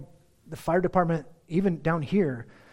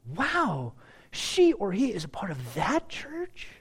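positive reaction; 4 semitones higher, slower than usual. Acted. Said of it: "See the difference?".

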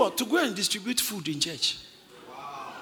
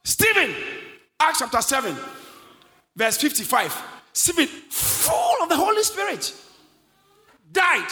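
punchy preacher delivery, key words pitched up; emphatic preaching; 4 semitones higher, 4 dB louder than usual. Acted. Preaches with rising force.

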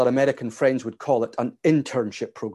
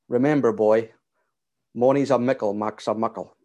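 put-on light Aberdeen accent, a father teaching his boy; father's Aberdeen accent; 4 semitones lower than usual. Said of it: "In his, uh, old Aberdeen accent".

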